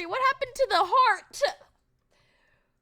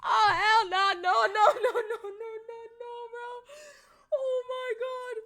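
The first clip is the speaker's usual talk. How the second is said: laugh-crying; slower than usual. Real, not acted.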